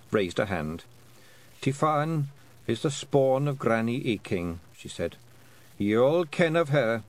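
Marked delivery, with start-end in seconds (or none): 1.6-7.0 put-on higher Scots voice of a wee old woman; a sly old Scottish matriarch sniffing out a treat; lightly voiced old Scottish woman, teasing; old Scots Kelda. Kelda naming Tiffany heir.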